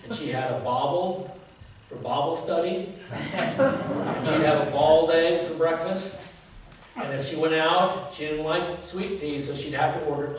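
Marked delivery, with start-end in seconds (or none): 0.5-2.9 mock Southern vowel on bauble; Southern accent. Preacher imitating his Southern mother's Bible study. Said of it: "in the South". 3.1-6.2 bald egg for boiled egg, slow and amused; Southern accent. Retold or imitated. Preacher teasing his mother's Southern breakfast. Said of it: "in the South".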